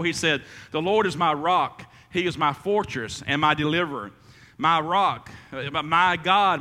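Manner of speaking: measured, reverent reading of a psalm; solemn Bible reading; scripture reading. Acted. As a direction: read it out like scripture. Reads a psalm aloud.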